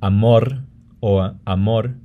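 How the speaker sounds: amor with rolled final R, then amor with tapped R; trilled or flapped R. Shown as a demonstration. Teacher contrasts standard final Rs, trilled then flapped. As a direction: end amor with a roll, then a tap. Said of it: "instead of saying".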